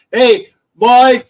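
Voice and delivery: loud, slow put-on Boston voice; over-the-top Boston accent; mock Boston accent. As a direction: ham up a Boston fan, drawn out. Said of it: "you know, like that".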